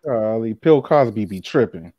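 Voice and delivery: talking through chips; slow words round a mouthful; mouth full. Real, not acted. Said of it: "You got a mouthful of chips".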